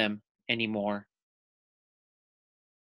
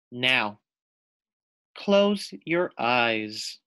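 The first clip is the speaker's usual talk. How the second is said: calm guiding lizard. Acted. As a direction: lead her gently into stillness.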